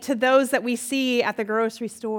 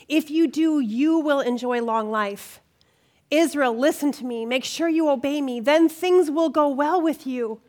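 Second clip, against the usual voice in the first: scripture reading. Acted. Speaker reads Deuteronomy to the group in a measured reading voice. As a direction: read the verses to the women with weight.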